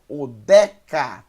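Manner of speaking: Odeca with a loud, open E on DE; Odeca, middle vowel opened and punched. Shown as a demonstration. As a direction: say Odeca syllable by syllable, E as in 'bet'. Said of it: "som de E".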